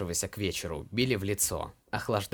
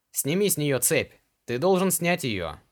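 higher and louder demand; shouting demand; 6 semitones higher, 4 dB louder than usual. A narrator's reading. Ilar to slave trader, shouting. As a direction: yell at him to free her.

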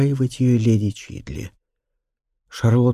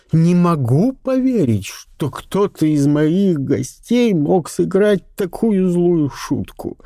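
mild indignation; 6 semitones higher, slower than usual. A narrator's reading. Viscountess outraged.

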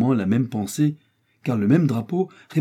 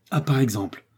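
mildly raised, surprised outburst; lebhafte Überraschung; 3 semitones higher than usual. A narrator's reading. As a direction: exclaim in astonishment. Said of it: "avec les accents de la plus vive surprise".

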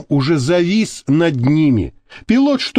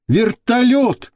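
high, drawn-out cry; calling out; 8 semitones higher, slower than usual. A narrator's reading. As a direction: call out the sighting, stretching the word. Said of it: "крикнул Азиз". (протяжный крик)

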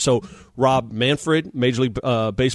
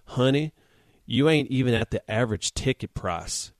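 gently imitated Southern woman, a little soft; 5 dB quieter than usual. Cashier to an embarrassed first-timer, little Southern voice. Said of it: "in this little Southern voice".

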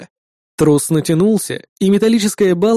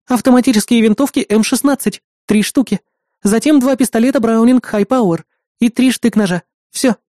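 higher-pitched assistant's voice; assistant reporting; 5 semitones higher than usual. Acted. Assistant lists the seized weapons to the hero, matter-of-fact report. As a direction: list it like an efficient assistant.

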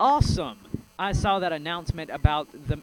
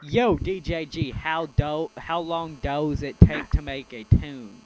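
put-on slow, louder country accent on the question; 5 dB louder, slower than usual. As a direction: drawl the question like a country singer, a touch louder. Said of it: "don't know why I said that in a country accent".

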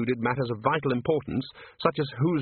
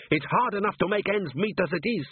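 high-pitched aggrieved dwarf; hot indignation; 10 semitones higher than usual. A narrator's reading. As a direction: complain hotly in a raised pitch. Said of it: "said Gimlet hotly".

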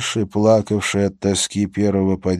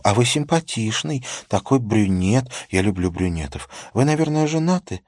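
flirty woman voice; 4 semitones higher than usual. Acted. Prostitute flirts with officer.

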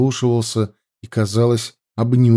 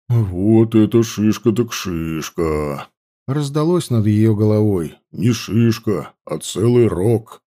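teasing joke; slower than usual. A narrator's reading. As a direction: tease her good-naturedly. Friend teases injured girl. (насмешливая шутка)

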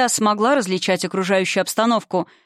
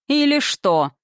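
a higher, taunting question; mocking; 6 semitones higher, slower than usual. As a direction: toss it back with a sneer. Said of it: "насмешливо спросила тьма".

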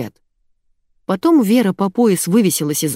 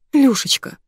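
pleading; 8 semitones higher than usual. A narrator's reading. Diana begging her husband, pleading. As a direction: stretch it imploringly, pitched up. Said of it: "умоляюще протянула Диана".

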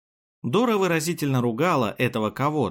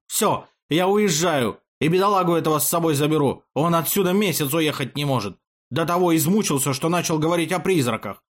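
higher-pitched, plaintive tirade; distraught complaint; 6 semitones higher, 3 dB louder than usual. A narrator's reading. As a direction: lament that all is lost, then rush into leaving. Distraught artist announces he is leaving. (горестная тирада на повышенных тонах)

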